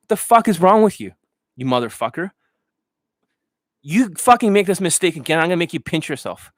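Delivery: high mock-angry scolding; high hammed-up rant; Johnny Elite impression. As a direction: chew out a student, hammed-up. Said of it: "was that a good Johnny Elite impression".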